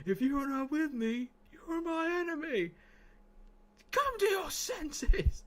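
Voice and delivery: Anakin impression. Streamer doing Star Wars quotes for his chat, high and strained. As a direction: plead it like a fallen Jedi. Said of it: "I'll do the impression for you".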